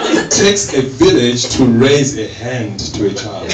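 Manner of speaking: slowed punchline, stressing the twist. Shown as a demonstration. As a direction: land the twisted proverb slowly.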